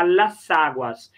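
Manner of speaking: "las aguas" run together as "la-saguas"; linking S. Shown as a demonstration. Teacher showing the prettier plural, "las aguas" linked by S. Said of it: "como a pronúncia fica mais bonita".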